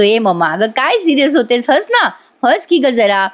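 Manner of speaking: lightly acted playful plea; coaxing. Son urging his serious mother to laugh, coaxing.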